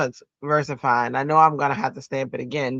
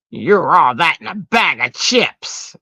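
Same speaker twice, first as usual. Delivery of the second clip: voicing a flirty line; 3 semitones higher, 7 dB louder than usual. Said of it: "he says it like that".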